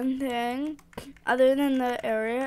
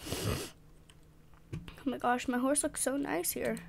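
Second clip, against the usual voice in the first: awed whisper; 9 dB quieter, slower than usual. Real, not acted.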